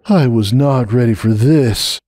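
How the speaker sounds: quiet reverent. Acted. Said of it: "repeated quietly, almost reverently".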